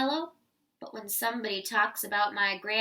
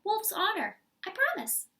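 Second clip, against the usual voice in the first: higher, pleading wolf's vow; earnest wolf promise; 8 semitones higher than usual. Acted. Wolf promising listeners he's honest. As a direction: swear it like an innocent wolf.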